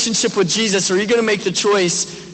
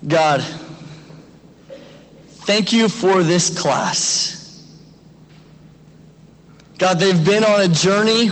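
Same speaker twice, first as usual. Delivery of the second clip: prayer. Acted. Pastor prays over the class.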